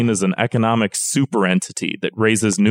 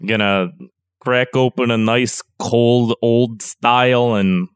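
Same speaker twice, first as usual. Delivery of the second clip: put-on Chicago accent; 3 semitones lower than usual. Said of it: "Chicago party uncle".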